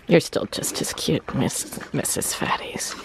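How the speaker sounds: soft cooing whisper to animals. Real, not acted. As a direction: whisper sweetly to the pigs. Cooing to the hogs.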